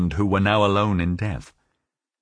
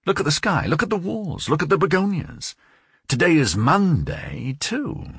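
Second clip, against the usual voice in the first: high, urgent voice of a man gripped by an idea; obsessed man, insistent; 7 semitones higher than usual. A narrator's reading. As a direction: point things out in rising agitation. Voices the obsessed José Arcadio.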